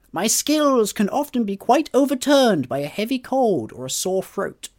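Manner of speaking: lightly voiced stuffy gentleman professor; a hint of an old English scholar, measured and proper; Gilbert Norrell voice. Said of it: "I'm gonna use my Gilbert Norrell voice".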